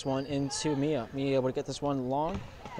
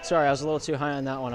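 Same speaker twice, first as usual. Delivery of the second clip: out of breath. Real, not acted. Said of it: "I'm out of breath".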